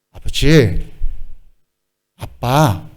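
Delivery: a gentle, loving "아빠"; affectionate call. Shown as a demonstration. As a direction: call dad tenderly. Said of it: "좀 이렇게".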